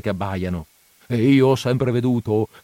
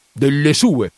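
exclamation; 3 semitones higher, 4 dB louder, slower than usual. Acted. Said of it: "esclamò Perpetua".

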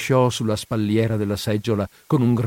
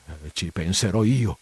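grumbling; 4 semitones lower, 4 dB quieter than usual. Acted. Priest grumbling back to his housekeeper, lower and softer. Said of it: "rispose brontolando".

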